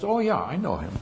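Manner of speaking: put-on little girl voice. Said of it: "And she says".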